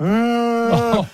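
mock cry. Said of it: "So she starts crying".

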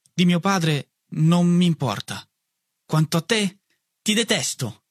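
freddo e lento, con voce più acuta; gelido, scandendo le parole piano; freddezza voluta. A narrator's reading. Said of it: "e dissi freddamente". (voce fredda e alta di un ragazzo offeso)

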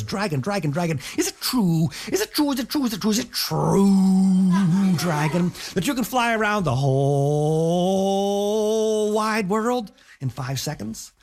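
pleading princess. Acted. Elizabeth pleads with the dragon.

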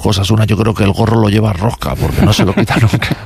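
Impression of a singer. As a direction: drag the words out like an old rocker. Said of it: "Joaquín me dice". (imitando al cantante, grave y lento)

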